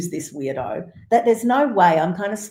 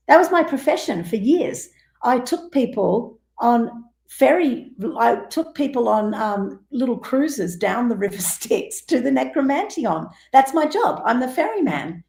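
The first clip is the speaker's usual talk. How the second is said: put-on proud old ferryman; 6 semitones higher than usual. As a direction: play a proud old man boasting about his job. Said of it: "He goes".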